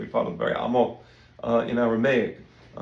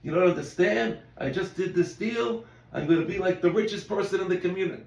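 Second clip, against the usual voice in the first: higher, bragging about a deal; boastful; 5 semitones higher than usual. Retold or imitated. Rabbi acting a bragging businessman, higher pitched boast. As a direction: show off a big win. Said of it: "Or it could be the other way".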